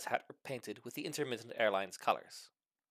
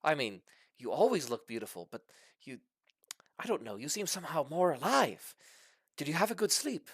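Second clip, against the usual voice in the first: lovestruck dragon; 5 semitones higher than usual. Acted. Dragon courting his mate.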